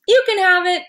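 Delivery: high, timid little voice; teacher voicing a meek SpongeBob. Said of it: "SpongeBob just says".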